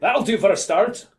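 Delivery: curt acted police threat; Chief Collig. A narrator's reading. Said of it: "snapped Chief Collig".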